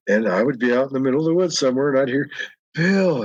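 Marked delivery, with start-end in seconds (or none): 2.7-3.2 lightly imitated prim librarian calling a name; a prim, ladylike call of the name, slightly higher; proper lady's voice. Unseen woman in the woods calling Bill, prim and ladylike. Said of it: "in that ladylike voice".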